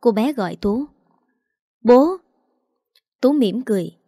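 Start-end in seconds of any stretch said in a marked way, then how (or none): 1.8-2.2 put-on bright, high call of a little girl; gọi to. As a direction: call out to dad, high and loud. Bé gái gọi bố. (bé gái gọi bố thật to)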